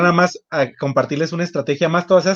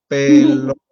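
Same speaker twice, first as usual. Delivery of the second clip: "pelota" said louder in a mechanical robot voice; 7 dB louder, slower than usual. Pretend. Children acting as robots, calling out "pelota" loud and mechanical. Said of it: "el robot silábico".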